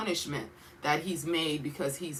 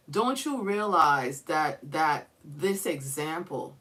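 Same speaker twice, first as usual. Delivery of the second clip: pleading father. Acted. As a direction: plead gently, like a sorrowful father. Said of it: "like he's saying".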